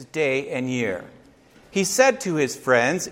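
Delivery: measured, dramatic poem reading; rolling verse read aloud; poem recitation. Acted. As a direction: recite it like a storyteller to children. Recites opening of Longfellow poem.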